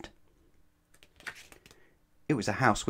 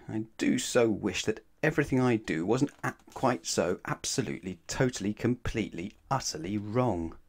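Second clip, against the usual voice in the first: wistful inner wish; 3 dB quieter than usual. Acted. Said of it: "he thought".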